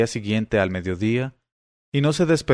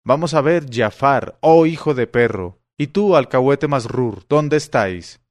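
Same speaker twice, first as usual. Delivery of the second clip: shouting with all his strength; 3 semitones higher, 4 dB louder than usual. Acted. Abul Hasán yelling for Giafar and Masrur, loud shout. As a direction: bellow for his servants. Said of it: "se puso a gritar con todas sus fuerzas".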